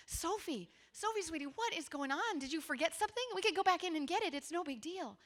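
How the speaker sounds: tender parent reassuring her upset daughter; gentle parent. Retold or imitated. Parent soothing crying daughter.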